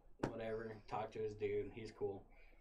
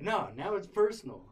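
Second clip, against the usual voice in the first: angry retort; 6 semitones higher, 9 dB louder than usual. Retold or imitated. Roommate retorting in fight.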